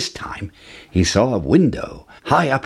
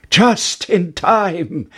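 relieved cry; 7 semitones higher, much slower than usual. A narrator's reading. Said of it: "cried Jack".

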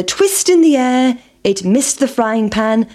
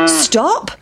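cow calling; 5 semitones higher than usual. Acted. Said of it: "shouted the cow".

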